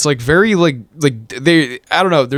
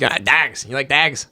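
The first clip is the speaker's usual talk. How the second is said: put-on Irish Traveller accent; mock Irish gypsy voice; Irish gypsy, Pikey; 4 dB quieter, slower than usual. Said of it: "that's, like, Irish gypsies".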